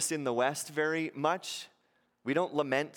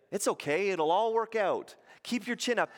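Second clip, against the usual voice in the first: higher, breezy dismissive reassurance; mock cheery platitude; 6 semitones higher than usual. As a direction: brush it off with fake cheer. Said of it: "notice that's not what the church did".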